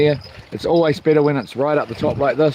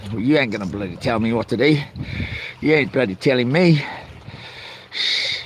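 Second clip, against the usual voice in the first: mock defiance; 2 semitones lower than usual. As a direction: play the stubborn bloke who won't be told. Mock defiant rant at wife.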